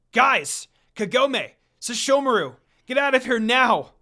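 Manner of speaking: urgent pleading shout. Acted. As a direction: beg them to flee, straining. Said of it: "Inuyasha pleaded".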